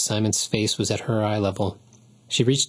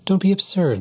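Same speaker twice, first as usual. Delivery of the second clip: insistent; 10 semitones higher, 4 dB louder than usual. A narrator's reading. Laza insists on the walk.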